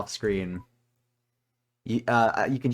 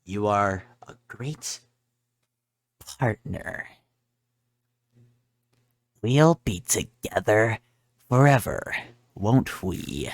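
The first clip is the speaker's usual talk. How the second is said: ominous Chara; 2 semitones lower, slower than usual. Acted. Chara tells the player why they returned. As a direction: draw each phrase out like a cold threat.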